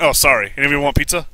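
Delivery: put-on light Italian accent; a hint of an Italian accent. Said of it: "like, an Italian accent".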